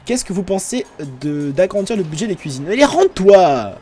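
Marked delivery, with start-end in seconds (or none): 2.7-3.8 calling out. Pretend. Orders a prisoner inside.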